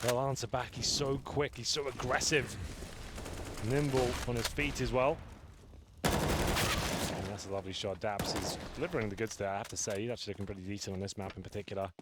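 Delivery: live play-by-play commentary; esports caster. Acted. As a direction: call the action as it happens.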